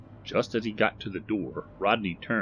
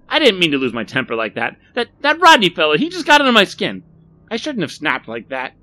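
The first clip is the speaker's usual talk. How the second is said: loud, raised, pleading excuse; flustered apology; 11 semitones higher, 11 dB louder than usual. A narrator's reading. Barry apologises to Millie for losing his temper, flustered. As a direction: plead your case, flustered.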